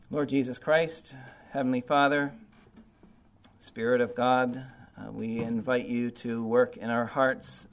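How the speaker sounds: earnest, subdued closing prayer. Acted.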